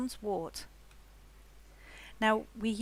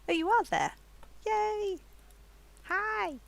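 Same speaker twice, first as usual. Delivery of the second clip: excited; 12 semitones higher, 4 dB louder than usual. Real, not acted. Delighted to find friend there.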